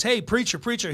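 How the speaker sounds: put-on loud, high call-out of a drunk heckler; hammed-up drunken interruption; imitating drunken heckler. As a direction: act out a drunk hollering at the preacher. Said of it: "this drunken guy walks into".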